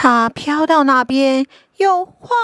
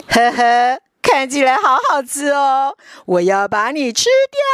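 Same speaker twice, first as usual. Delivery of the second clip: louder, hissing villain snake; sly snake voice; 4 dB louder than usual. Acted. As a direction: menace the tadpole like a snake. Snake threatens.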